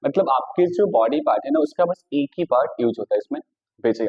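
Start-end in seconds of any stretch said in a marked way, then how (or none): 3.8-4.1 quick, unbroken single beat; said in one go. Shown as a demonstration. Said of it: "आपने फटाक से बोल दिया". (फटाक से, एक बार में)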